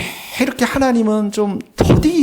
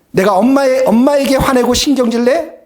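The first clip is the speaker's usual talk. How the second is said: daughter's rhetorical question; 2 semitones higher, 5 dB louder than usual. Retold or imitated. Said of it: "우리 채은이가 이런 말을 해요".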